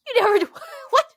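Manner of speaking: high, loud laughing disbelief; mock disbelief. Questioning her dad in high laughing disbelief. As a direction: squeak it out in amused disbelief. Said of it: "I was like".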